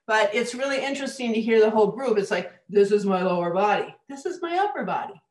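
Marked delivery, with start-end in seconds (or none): 2.7-3.9 louder, fuller and grounded; full, grounded tone with bass notes; grounded lower body voice. Shown as a demonstration. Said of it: "a whole different tone of voice in the upper body". 4.1-5.2 higher and lighter, no grounding; higher, thinner tone from the head; upper body voice. Shown as a demonstration. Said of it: "a whole different tone of voice in the upper body".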